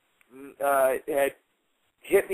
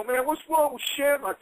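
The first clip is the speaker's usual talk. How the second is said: Knobs's taunt; 9 semitones higher than usual. Retold or imitated. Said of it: "I hear this guy go".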